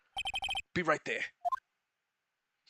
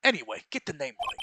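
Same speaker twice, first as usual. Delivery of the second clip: loud, proud cop voice; detective insisting on his title, loud and proud; blustering detective; 2 semitones higher, 6 dB louder than usual. Acted. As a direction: puff up and correct him.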